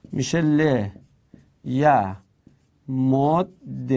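لِ یَ مُدْ دِ spelled out slowly, one syllable at a time. Shown as a demonstration. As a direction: sound out لِیَمُدِّ slowly. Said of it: "مکسور باشد یا کسره داشته باشد". (هجا به هجا، شمرده)

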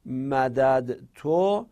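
مدد تو drawn out very slowly; teacher slowly sounding out مدد تو; slow demo. Shown as a demonstration. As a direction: say مدد تو slowly so the two dals are heard. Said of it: "اینجا الان".

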